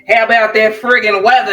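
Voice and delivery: put-on brisk, heavy New York accent; Staten Island accent. Imitating a legal secretary's small talk, heavy New York accent. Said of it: "really heavy Staten Island, New York accent".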